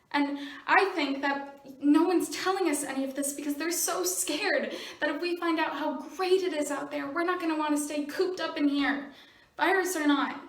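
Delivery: insistent, indignant argument to a parent; worked-up protest. Acted. Monologue, teen pleading with mom.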